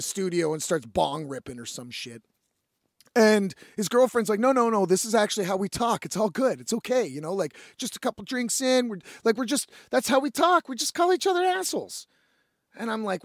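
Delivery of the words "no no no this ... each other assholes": lightly voiced girlfriend explaining it away; rising pitch as she brushes it off; imitated girlfriend. Girlfriend smoothing over the quarrel.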